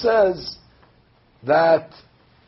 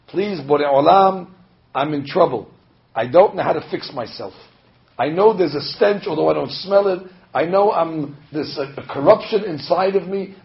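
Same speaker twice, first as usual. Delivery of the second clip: sincere plea. Shown as a demonstration. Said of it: "You could say it just like that".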